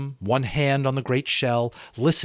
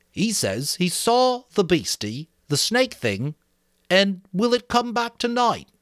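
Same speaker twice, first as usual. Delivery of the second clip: Piggy relaying the fear; boy Piggy, worried; 10 semitones higher than usual. Acted. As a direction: press the child's fear. Piggy voiced.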